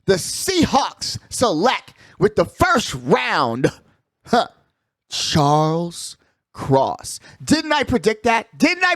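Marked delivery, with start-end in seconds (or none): 0.1-7.2 mock draft announcer.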